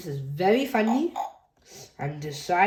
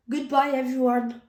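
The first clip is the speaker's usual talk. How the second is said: cheer; 7 semitones higher, faster than usual. Acted. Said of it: "cheers Pepper".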